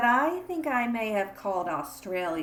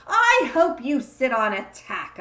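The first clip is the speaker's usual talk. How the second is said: put-on childish spite; 3 semitones higher, 6 dB louder than usual. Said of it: "I said to Paul".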